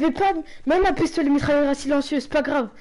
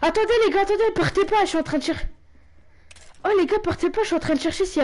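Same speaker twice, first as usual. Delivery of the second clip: high urgent call to the team; calling out urgently; 5 semitones higher, faster than usual. Real, not acted. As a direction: call after them, pleading. Calling teammates not to leave.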